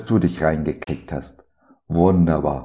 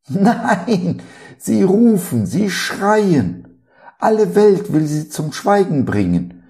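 high, loud preaching climax; fervent preaching; 8 semitones higher, 5 dB louder than usual. Acted. Preacher tells listeners the blind men keep crying, fervent and loud. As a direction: preach it out with rising fire.

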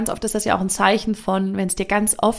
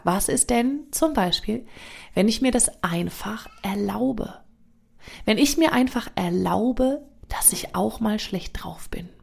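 slow, soft, half-whispered question; gentle self-permission; 4 dB quieter, slower than usual. Retold or imitated. Giving herself permission for a bad mood, slow and soft. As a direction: coax yourself kindly and slowly. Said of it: "asking herself gently".

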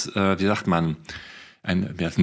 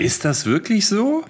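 surprised; 12 semitones higher than usual. Real, not acted. Doubting the co-host's claim.

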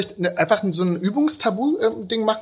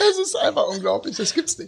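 stifled giggles; 3 dB quieter than usual. Real, not acted. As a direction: laugh helplessly while talking. Can't stop laughing.

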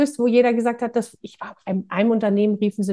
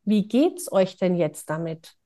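gentle question; 3 semitones lower, 4 dB quieter, slower than usual. Retold or imitated. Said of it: "eine Frage gestellt".

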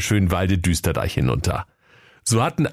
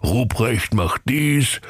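slow, lightly mocking singsong on dies; mocking the boss; slower than usual. Ruprecht aping his boss's orders, slow mock. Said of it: "fluchte der Knecht Ruprecht".

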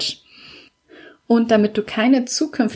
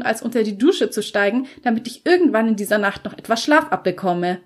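etwas höhere, genervte Frauenstimme; müde und gereizt, nur angedeutet; leicht gespielte Allison; 5 semitones higher than usual. Acted. Allisons Stimme, Figur. (Allison erklärt Ian genervt am Telefon, leicht höher)

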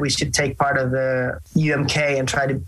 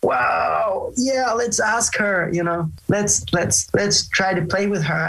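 excited bandmates; 4 semitones higher than usual. Retold or imitated. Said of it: "And they were like".

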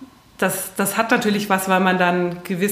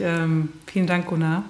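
raspy, rough-throated thanks; hoarse voice; 2 semitones lower than usual. Real, not acted. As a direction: let the hoarse rasp come through. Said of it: "mit rauer Stimme sage ich".

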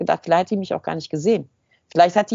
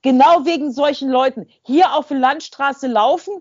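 loud, high, ranting accusation; dog owner yelling accusations on a country road; angry shouting; 5 semitones higher, 5 dB louder than usual. Retold or imitated. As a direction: bark the blame at her, furious. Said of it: "Und sie dann so".

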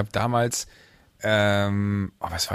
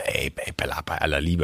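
soft protest; 7 semitones lower, 6 dB quieter than usual. Retold or imitated. Refusing the friend's request.

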